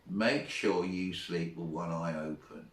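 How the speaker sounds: low, quiet tough-guy threat; Clint Eastwood. Retold or imitated. Boy threatens his teacher at lights out, mock Clint Eastwood. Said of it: "in this Clint Eastwood stroke accent".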